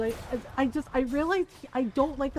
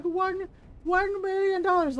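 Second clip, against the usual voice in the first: Doctor Evil impression; 8 semitones higher, 4 dB louder, slower than usual. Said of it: "He's like".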